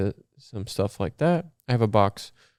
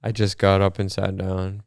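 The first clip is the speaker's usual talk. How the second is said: slightly winded after getting up; out of breath. Real, not acted. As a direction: speak a little short of breath. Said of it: "I'm out of breath".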